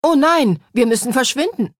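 panic, they must hide; panicked cry. A narrator's reading. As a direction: jester panicking at a voice. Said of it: "rief Olaf".

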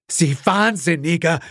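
high, gasping outrage; gasped. A narrator's reading. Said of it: "keuchte Gerald". (keuchend, hohe Stimme)

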